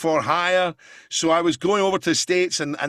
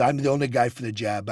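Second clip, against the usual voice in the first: sincere Trump impression; 5 semitones lower than usual. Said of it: "he started talking very sincerely".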